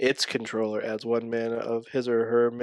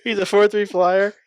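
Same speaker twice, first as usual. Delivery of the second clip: laughing; 7 semitones higher, 9 dB louder than usual. Real, not acted. Laughing while reading.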